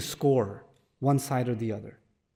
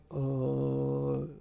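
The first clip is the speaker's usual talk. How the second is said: put-on timid teen asking; 3 semitones lower, 7 dB quieter, much slower than usual. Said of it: "and he's like".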